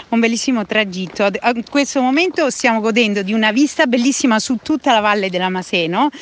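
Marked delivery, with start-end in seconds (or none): 1.2-6.1 breathless talk while walking uphill; speaking out of breath mid-hike. Real, not acted. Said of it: "scusate il fiatone".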